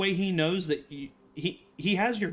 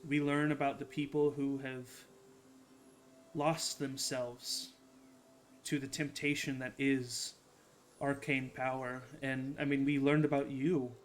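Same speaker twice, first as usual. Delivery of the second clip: soft, sincere in-character voice; earnest understanding; 2 semitones lower, 8 dB quieter than usual. Acted. Avra tells Elburn she understands power's temptation, soft and earnest. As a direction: speak gently and earnestly, with pauses. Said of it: "maybe the most earnest".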